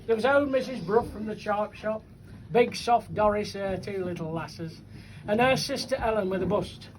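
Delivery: bouncing rhymed verse, line by line; comic poem recitation. Acted. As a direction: recite it to a live crowd.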